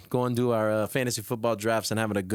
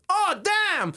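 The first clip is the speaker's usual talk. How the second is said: high, frustrated exclamation; mock exasperation at an injured player; exasperated damn. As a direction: vent at the bad news. Fantasy owner hit by bad news.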